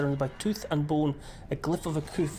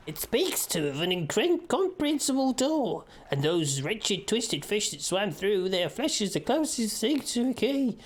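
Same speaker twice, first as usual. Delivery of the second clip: high, slow eerie cult member; cultist voice; 6 semitones higher than usual. Acted. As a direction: intone it like a cult fanatic. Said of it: "So I'm doing my best, um, cultist voice".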